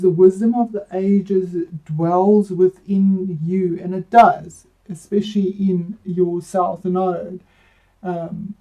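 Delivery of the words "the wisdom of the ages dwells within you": "wisdom" drawn out, slow and deliberate; slow solemn reading. Acted. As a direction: read the card line slowly and solemnly. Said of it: "the card meaning is".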